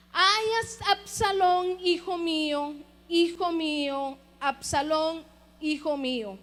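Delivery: a grieving father's cry, rising on the first Ay; weeping lament. Acted. King weeping for his dead son, anguished lament. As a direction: cry out the dead son's name, breaking. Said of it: "lloraba y decía".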